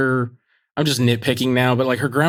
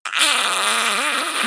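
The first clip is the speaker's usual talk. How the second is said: mock yell; 11 semitones higher than usual. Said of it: "slams his hands on the counter and just goes".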